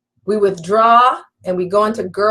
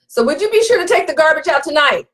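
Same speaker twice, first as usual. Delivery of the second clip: quick, higher, pushy "would you be sure" that leaves no room for no; slick command; 6 semitones higher, faster than usual. Shown as a demonstration. Wife to husband about the garbage, slick command posing as a request. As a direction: rush it out as an order dressed up as a request. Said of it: "So don't be slick and your request is really a command".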